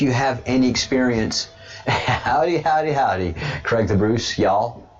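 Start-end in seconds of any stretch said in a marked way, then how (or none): 1.9-4.9 mock Texan howdy. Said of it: "learn how to use y'all properly".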